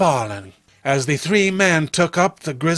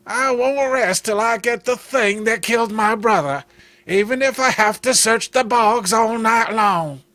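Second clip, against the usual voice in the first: higher, set, determined vow; vengeful brother; 5 semitones higher than usual. Acted. Clem vowing to hunt his brother's killer, determined. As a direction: swear it through the grief.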